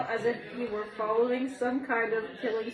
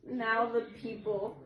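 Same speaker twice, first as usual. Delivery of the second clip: giggling; 3 dB louder than usual. Real, not acted. Reader giggles through a story.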